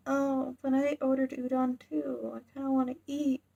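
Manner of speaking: high, sulky little protest; mock whine. Boy who ordered udon protests going, mock whiny. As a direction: whine it like a hungry kid, playfully acted. Hungry Denji protests being sent off.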